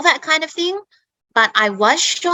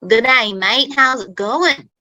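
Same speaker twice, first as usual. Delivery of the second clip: lightly broadened Australian accent, lilting higher; a touch of broad Australian twang; 3 semitones higher than usual. Shown as a demonstration. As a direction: do a broad Aussie, Steve Irwin style. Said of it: "like, the really broad Australian accent".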